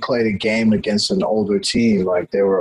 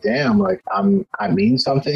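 amazed realization; 9 semitones higher than usual. Retold or imitated. Kid realizing coach believes in him.

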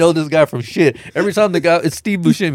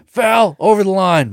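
higher, sudden mock call-out; imitated foul call; 4 semitones higher than usual. Bowler objecting to a rival's throw, mock calling out.

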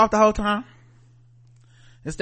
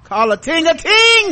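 slow, higher, louder mock Jamaican accent; drawn-out Jamaican saying, hammed up; Jamaican patois; 10 semitones higher, 6 dB louder, slower than usual.

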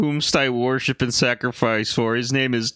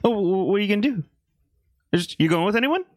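paranoid god; 4 semitones higher, faster than usual. Pretend. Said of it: "Devin's a bit of a paranoid god".

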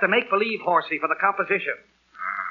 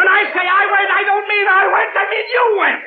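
higher, louder, nearly at wits' end; exasperated shout; 8 semitones higher, 4 dB louder than usual. Acted. Father shouting at his confused daughter. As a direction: explode trying to explain.

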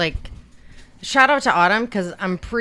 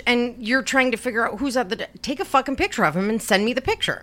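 higher-pitched, hurried scolding; retold impatient order; 6 semitones higher than usual. Parent telling kid to photograph the stranger, impatient. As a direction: push them to get on with it.

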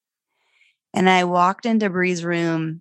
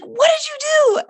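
very high, louder yell of disbelief; angry yell; 4 dB louder than usual. Retold or imitated. Mom confronting foster daughter, very high angry yell. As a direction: shriek it at the child. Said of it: "I blew up".

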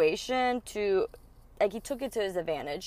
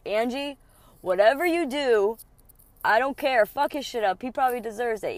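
louder, higher hyped-up friend; egging her on; 3 semitones higher, 5 dB louder than usual. Retold or imitated. Friend urging Angie on, loud and excited. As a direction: cheer her on to wreck his stuff. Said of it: "And he's like".

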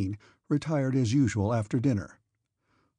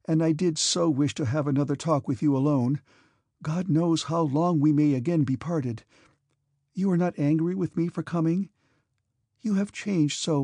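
put-on gentle young woman voice; 4 semitones higher than usual. Princess Mary speaking.

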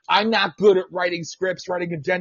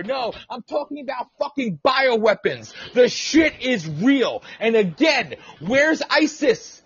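indignant, high-pitched challenge; heated rant; 4 semitones higher than usual. Real, not acted. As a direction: fire angry rhetorical questions at doubters.

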